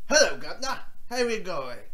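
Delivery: lightly mock a British greeting in a bad British accent. Teasing the show's bad British accent with a mock greeting. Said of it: "bad British accent".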